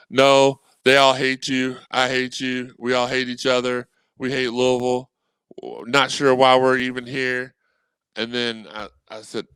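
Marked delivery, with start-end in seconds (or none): 0.1-7.5 loud mock rant of a fed-up fan; hammed-up, loud fan venting in DMs; mock outburst. Fan replying in DMs, hammed-up loud rant. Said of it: "I was like".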